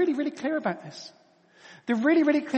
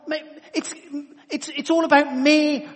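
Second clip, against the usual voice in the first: mock self-absorbed voice; 5 semitones higher than usual. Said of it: "The world tells you".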